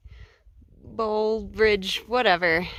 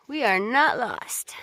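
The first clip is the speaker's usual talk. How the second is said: whispering; 3 semitones higher, slower than usual. Real, not acted. Joking aside while hiking.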